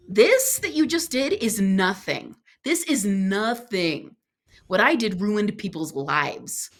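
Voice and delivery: slow, deliberate comfort; calm steady reassurance to a crying friend; slow reassuring. Retold or imitated. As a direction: make her feel it's nothing. Reassuring ashamed woman slowly.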